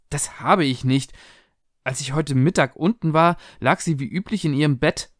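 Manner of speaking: mildly defensive, pitched a bit up; a touch of self-justifying protest. Acted. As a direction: justify yourself to your husband. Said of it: "rechtfertigte sich Heather".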